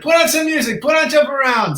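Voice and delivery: high-pitched, eager demand; acted eager request. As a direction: ask for the song, voice jumping up. Acted urgent request to guide.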